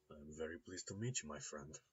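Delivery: put-on smooth Russian-accented gentleman. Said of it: "There's a hint of a Russian accent there".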